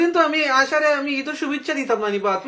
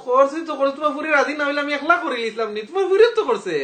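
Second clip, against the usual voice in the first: laughing taunt; 4 semitones higher than usual. Real, not acted. Caller laughs taunting the father.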